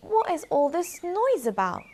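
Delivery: high and loud; high mouse voice. Acted. Mouse asking about the noise, high. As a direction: squeak the question. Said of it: "asked the quiet little mouse".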